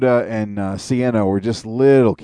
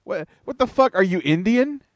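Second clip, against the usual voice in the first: mock Indian accent; 8 semitones higher than usual. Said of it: "Stop trying to do accents".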